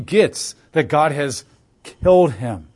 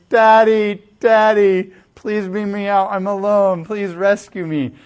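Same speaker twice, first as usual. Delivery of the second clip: put-on pleading child; 5 semitones higher, 4 dB louder, slower than usual. Grounded kid begging parent.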